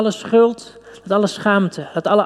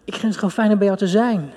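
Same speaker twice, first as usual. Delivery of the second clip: tender voice of God; 3 semitones higher than usual. Acted. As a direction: lightly voice God gently. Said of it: "een God die echt zegt".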